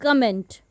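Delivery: comment said the wrong way, stress shifted off the first syllable; the mistaken comment. Shown as a demonstration. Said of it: "not comment".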